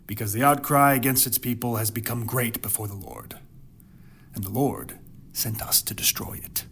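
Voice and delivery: measured, solemn reading of the Bible passage; hushed, dramatic scripture reading. Acted. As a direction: read the verses like a storyteller at the pulpit. Reads scripture passage aloud.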